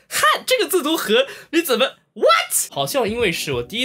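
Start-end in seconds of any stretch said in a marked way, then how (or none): 0.1-2.7 high, stunned squeak of disbelief; high incredulous what; shocked disbelief. Real, not acted. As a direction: react like the word just broke your brain. Shocked by Taiwanese pronunciation.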